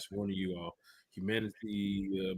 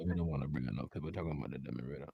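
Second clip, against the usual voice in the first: mock Desmond Ridder accent; 5 semitones lower, 7 dB louder than usual. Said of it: "this is my Desmond Ridder accent".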